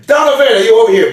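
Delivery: quick, loud call for Donovan. Acted. Gift giver calling fast across the room for Donovan. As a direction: fire the name across the room.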